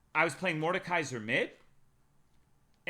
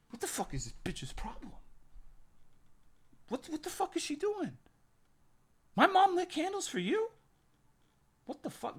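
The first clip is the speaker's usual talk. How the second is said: high, strained half-whispered outrage; acted freak-out held under the breath; exasperated disbelief; 14 semitones higher than usual. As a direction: hiss it in a squeaky stage whisper. Acts out disbelief at her play.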